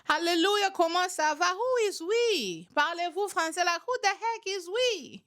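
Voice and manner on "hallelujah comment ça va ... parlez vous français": light mock French accent, higher; a hint of a hammed-up French accent. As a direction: tease in a playful fake French accent. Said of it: "Do they speak French down there".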